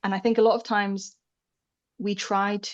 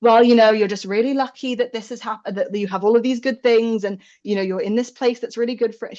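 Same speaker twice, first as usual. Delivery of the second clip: mum reassuring; 2 semitones higher, 6 dB louder than usual. Retold or imitated. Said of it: "she was going".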